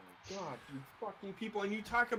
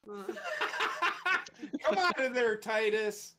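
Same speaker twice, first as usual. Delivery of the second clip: mock calling out; 2 semitones higher, much slower than usual. Imitating yelling at Titus under ring.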